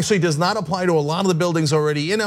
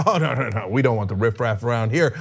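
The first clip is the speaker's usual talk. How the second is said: snobbish disdain; 4 semitones lower than usual. Retold or imitated. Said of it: "And she says".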